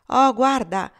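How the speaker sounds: shouting. Acted. Kitchen boys call out as old Prue arrives, shouting. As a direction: call out loud across the kitchen. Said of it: "intese gli sguatteri gridare".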